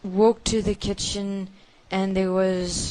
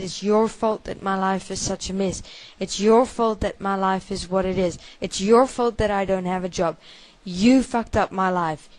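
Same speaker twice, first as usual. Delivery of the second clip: rising, louder accusing lines; father's angry accusation; 4 dB louder than usual. Retold or imitated. Father hitting his child, blaming him angrily. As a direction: blame the child harder with each line. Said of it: "And he said".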